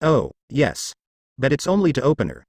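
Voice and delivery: light, quick cheery reply; a hint of cheer in a quick answer; mildly cheerful. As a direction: toss it off brightly and fast. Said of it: "Issei responded cheerfully".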